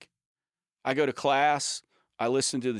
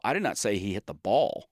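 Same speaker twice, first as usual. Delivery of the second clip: "ball" lifted with a rising end; stress on BALL; 2 semitones lower than usual. Shown as a demonstration. Showing how stress changes meaning, emphasis on "ball". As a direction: save the emphasis for the last word, "ball". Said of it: "depending on the stress which, which word you stress".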